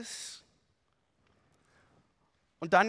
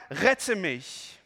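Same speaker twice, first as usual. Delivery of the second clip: cry for help; 4 dB louder than usual. Acted. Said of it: "schrie er".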